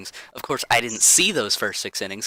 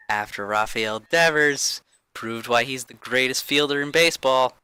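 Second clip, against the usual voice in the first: sarcastic; 2 semitones higher, 4 dB louder than usual. Real, not acted. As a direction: fake praise, laying it on thick. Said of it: "in case you couldn't hint at the sarcasm there".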